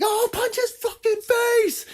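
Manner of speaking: slow, hammed-up shout at a fight; fight-night yell. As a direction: cheer on a brawl with the boys. Cheering fights with the boys.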